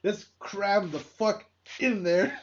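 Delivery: slow, laboured push on each word; mock forced delivery. Podcaster mocking forced video jokes, slow and laboured. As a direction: imitate someone cramming in a joke. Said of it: "they're always forced".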